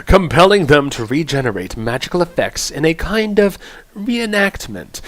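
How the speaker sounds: measured, theatrical announcer read; lightly grand storybook-style introduction. Acted. Streamer reads out the chanter class lore, announcer voice. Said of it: "My announcer voice".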